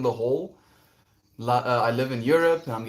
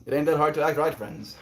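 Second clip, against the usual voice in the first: loud, higher mock Texan; hammed-up Texan twang; attempted Texan accent; 4 semitones higher, 5 dB louder than usual. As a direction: belt out a badly faked Texan accent. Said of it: "especially not a Texan one".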